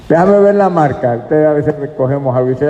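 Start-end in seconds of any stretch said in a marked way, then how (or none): 0.1-1.2 higher-pitched acted demand; lightly mimicked curious request; acted inspector. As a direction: play someone asking to check the label. Acts someone inspecting a brand label.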